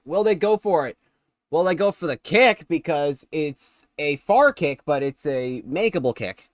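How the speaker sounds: lively football commentary; live play-by-play. Real, not acted. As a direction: call the play as it happens. Calls the game live.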